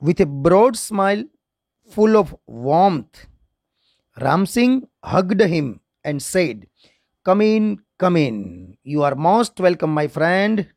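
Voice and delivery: slow, measured English reading; story read-aloud. Shown as a demonstration. Teacher reading Ramsingh's welcome to students, slow read-aloud. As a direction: read the story phrase by phrase, with pauses.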